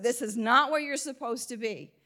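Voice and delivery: chuckling through the line; can't keep the laugh out of it; amused retelling of a clear no; laughing while quoting. Retold or imitated. Retelling God's answer, laughing.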